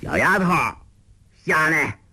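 calling out. Acted. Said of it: "欧阳锋叫道".

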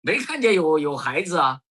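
high-pitched imitated alarm; alarmed bystander. Bus passenger fearing they trod on a child, mock alarm. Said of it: "旁边那个人吓坏了".

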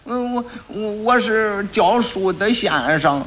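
very slow faltering answer; hesitant lie. Acted. Quack doctor slowly stammering his fake job to the magistrate, hesitant. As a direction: drag out the lie nervously.

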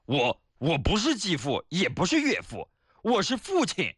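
mildly hammed-up angry protest, pitch climbing to the end; huffy, stammered start, rising to an indignant finish; indignant old man. Old man correcting the bank clerk, indignant. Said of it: "老头儿一听火了".

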